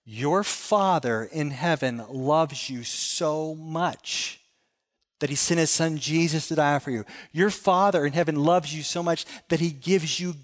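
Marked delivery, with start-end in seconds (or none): 0.1-4.4 slow and tender. Acted. Pastor stressing God's love.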